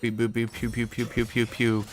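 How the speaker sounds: quiet beep boop and pew pew sounds; Lucian gun noises. Retold or imitated. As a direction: softly mimic laser shots. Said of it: "That's my Lucian impression".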